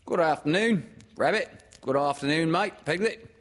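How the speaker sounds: high, loud character greeting; chirpy and pitched well up; Kanga. Acted. Mother greeting friends, in a high loud character voice.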